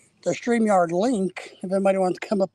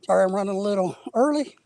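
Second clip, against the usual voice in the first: out of breath. Real, not acted. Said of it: "I'm out of breath".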